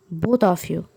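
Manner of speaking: "Both of you" said slowly, each word stretched; stressed, drawn out. A narrator's reading. Mother insisting her son's partner also comes, stressed. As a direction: lean on "Both of you", elongating every word. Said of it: "She stressed on the last sentence".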